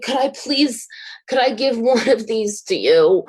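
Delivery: asking sweetly with a laugh slipping in; a giggle breaking into the offer; laughing request. Retold or imitated. Offering a painting to the couple, laughing gently.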